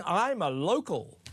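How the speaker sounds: slow, put-on Scottish accent; mock fake Scottish accent. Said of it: "conning them into thinking".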